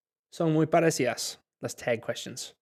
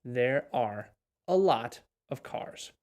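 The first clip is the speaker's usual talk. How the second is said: slow model line; 3 semitones lower, slower than usual. Shown as a demonstration. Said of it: "We can say either one".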